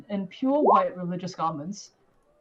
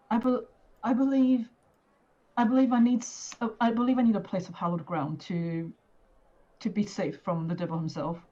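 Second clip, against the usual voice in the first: Irina pleading; 3 semitones higher than usual. Acted. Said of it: "kind of just tell, tells them".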